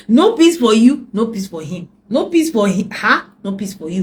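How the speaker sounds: emphatic preaching. Real, not acted. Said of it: "preaching emphatically".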